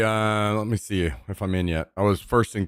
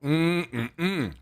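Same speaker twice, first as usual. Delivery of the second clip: talking while chewing; mouth full; 5 semitones higher than usual. Real, not acted. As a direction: mumble through a full mouth. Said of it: "I'm stuffing my face".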